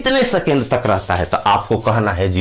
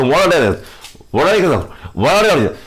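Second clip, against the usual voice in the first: fast demo; 3 semitones higher than usual. Shown as a demonstration. Teacher shows students words said too fast, rushed together. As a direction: rattle off वन एक्स with no gap between words. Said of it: "वन एक्स बोल दिए तेजी में".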